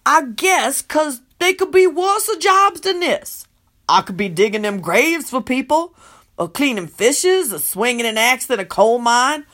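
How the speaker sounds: serious. Acted. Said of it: "Lucretia says seriously".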